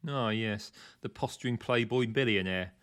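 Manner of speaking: sniping. Acted. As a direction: snipe at the playboy, loud. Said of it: "sniped Cruikshank".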